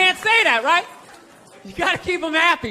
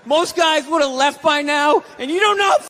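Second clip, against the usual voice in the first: higher, a light gruff impression of dad; dad's catchphrase; 4 semitones higher than usual. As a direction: bark it like an old-school dad. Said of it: "one of his catchphrases".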